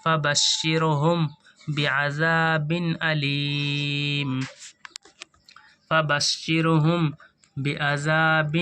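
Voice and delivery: slow, measured chanted recitation of the verse; Quran recitation. Acted. Teacher reciting the verse slowly for students to follow. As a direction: recite it slowly, drawing out each word.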